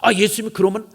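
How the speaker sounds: acted restrained remonstration; mild protest. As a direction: object gently, without real anger. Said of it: "이 정도가 아니라".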